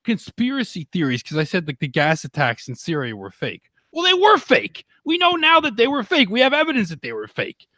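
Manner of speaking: really fired up and venting; real heated outrage, voice climbing high; heated rant. Real, not acted. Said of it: "I started to get a little heated".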